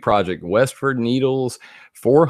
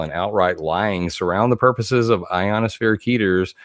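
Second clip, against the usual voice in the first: usual speaking voice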